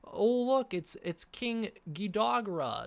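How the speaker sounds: high, loud, drawn-out mock YouTuber; mock a know-it-all saying King Ghidorah; hammed-up excited reviewer; mocking trailer breakdown. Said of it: "and they're like".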